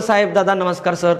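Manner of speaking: humble, soft respectful address; polite softly. Retold or imitated. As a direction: sweet-talk an angry officer. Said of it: "अगदी मृदू शब्दात जरी बोलत".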